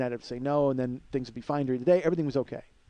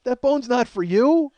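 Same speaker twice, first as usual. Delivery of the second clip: high, slow mock dog scolding; teasing dog-owner voice; 8 semitones higher, 6 dB louder, slower than usual. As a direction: drag it out like telling off a dog. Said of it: "that's what it sounded like".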